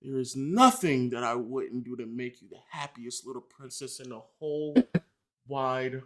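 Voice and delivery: soft mock lovestruck plea; mock tender. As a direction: coo the apology softly. Reading fan's apologetic love text.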